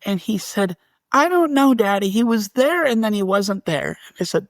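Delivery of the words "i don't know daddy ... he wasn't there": put-on higher, bewildered little boy's voice; small child. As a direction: sound like a puzzled toddler. Toddler answers father about ghost.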